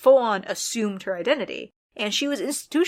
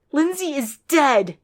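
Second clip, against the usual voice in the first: high, slow, louder reveal; dramatic reveal; 6 semitones higher, 5 dB louder, slower than usual. A narrator's reading. Narrator voices the girl revealing the death, high and slow.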